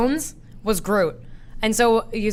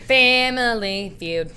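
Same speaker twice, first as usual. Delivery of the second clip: drawn-out game show host; 3 semitones higher, much slower than usual. Retold or imitated. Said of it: "he'd drag out his words".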